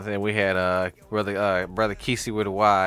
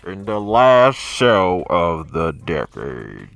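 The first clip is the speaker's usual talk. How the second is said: slow, deep trailer announcer voice; movie trailer voice; 4 semitones lower, 6 dB louder, much slower than usual. Shown as a demonstration. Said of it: "my movie trailer voice up".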